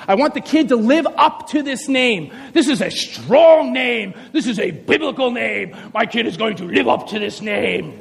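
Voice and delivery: hammed-up solemn declaration; proud parent. Parent choosing a child's name, grandly proud. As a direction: proclaim each phrase with mock grandeur. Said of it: "you pick a name and you're saying".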